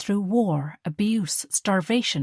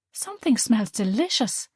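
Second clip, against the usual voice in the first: a touch higher, homely mother; mother figure, lightly voiced; 4 semitones higher than usual. Mother greeting her daughter, lightly voiced. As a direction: voice the warm German mother.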